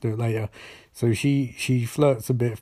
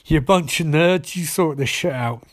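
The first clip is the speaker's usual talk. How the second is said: mildly irritated mock telling-off; annoyed; 3 semitones higher than usual. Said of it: "Joe is really getting annoyed".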